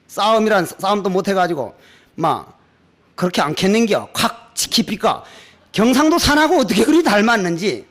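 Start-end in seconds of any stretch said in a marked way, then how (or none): 3.2-5.2 imitated gruff Gyeongsang dialect. Monk mimicking Gyeongsang people in a squabble, imitated Gyeongsang dialect. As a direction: mimic a Gyeongsang threat, lower. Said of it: "경상도 사람들".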